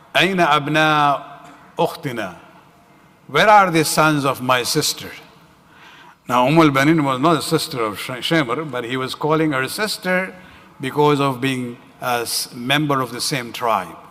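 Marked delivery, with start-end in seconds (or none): none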